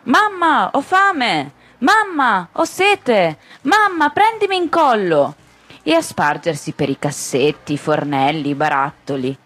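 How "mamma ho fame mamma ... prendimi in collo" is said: put-on tiny children shouting. A narrator's reading. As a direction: squeal it like a hundred chickpea-sized children. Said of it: "e cominciarono a gridare".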